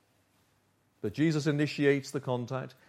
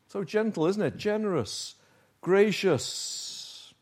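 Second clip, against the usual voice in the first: gentle admiration; 7 semitones higher, slower than usual. Real, not acted. Admiring Jesus' gentle answer to Peter.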